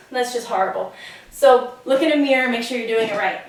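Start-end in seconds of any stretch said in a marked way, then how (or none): 1.3-3.4 breathless from the workout; panting a little between words; out of breath. Real, not acted. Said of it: "I'm a little out of breath".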